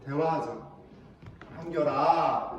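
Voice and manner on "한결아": put-on low, slow calling of a child's name; parent explaining patiently. Parent talking to upset child, low and patient. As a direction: draw out the name, patient and settled. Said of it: "이렇게 이야기하고 설명해줘요".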